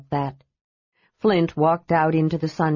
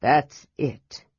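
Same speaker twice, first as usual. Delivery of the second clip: choked; 4 semitones lower than usual. A narrator's reading. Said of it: "his voice was choked".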